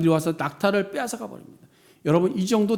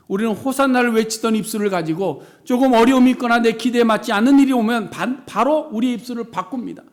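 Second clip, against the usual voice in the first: loud, raised sermon proclamation; full-force preaching; 3 semitones higher, 7 dB louder than usual. Acted.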